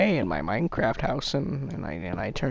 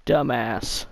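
punched a bit louder, falling; louder parrot insult. Retold or imitated. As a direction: spit out dumbass at the end. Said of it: "He says".

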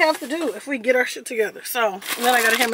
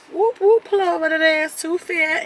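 mock cop siren; 5 semitones higher, 8 dB louder than usual. Mock police siren call.

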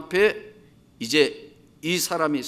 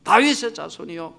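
mock shout; 4 dB louder than usual. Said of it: "막 소리를 지르니까".

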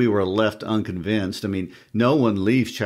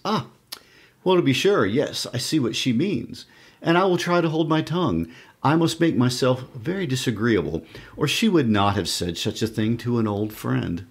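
higher-pitched, wounded spinster voice; spinster accent; 5 semitones higher than usual. Acted. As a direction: play a shamed spinster, pitched up. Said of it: "use your best Spencer accent".

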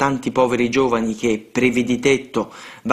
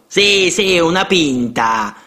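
put-on boys shouting in chorus; 5 semitones higher, slower than usual. A narrator's reading. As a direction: yell it like a gang of eager kids. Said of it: "presero a gridare gli altri in coro".

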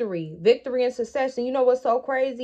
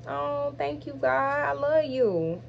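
choked-up thanks; 5 semitones higher, slower than usual. Real, not acted. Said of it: "I'm not gonna get emotional".

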